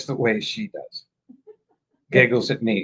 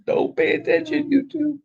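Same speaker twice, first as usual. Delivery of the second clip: mock aside; 12 semitones higher than usual. Mock address, much higher.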